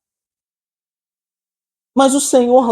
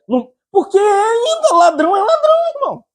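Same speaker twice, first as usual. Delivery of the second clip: laughing punchline; 13 semitones higher than usual. Real, not acted.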